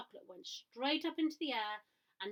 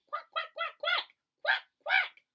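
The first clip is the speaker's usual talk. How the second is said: very high, louder duck quacks, building; louder quacking; 11 dB louder, slower than usual. A narrator's reading. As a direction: quack insistently, growing. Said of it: "much loudly".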